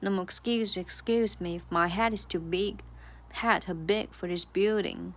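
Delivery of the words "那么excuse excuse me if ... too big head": slow stressed demo; stress on excuse and head. Shown as a demonstration. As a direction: excuse and head hit firmly. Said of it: "两次都是重读的".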